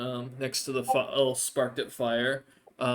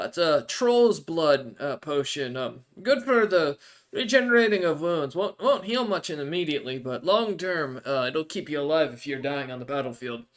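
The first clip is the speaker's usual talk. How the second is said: NPC voice; 4 dB louder than usual. Acted. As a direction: lift into the odd creature's voice, grateful but hungry.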